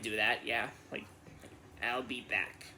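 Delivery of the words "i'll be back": lightly voiced Austrian Arnold accent, a little lower; a quick, half-hearted Austrian accent; Arnold Schwarzenegger impression. Answering a fan's request, a mild Austrian movie-star accent. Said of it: "can you do an Arnold Schwarzenegger accent".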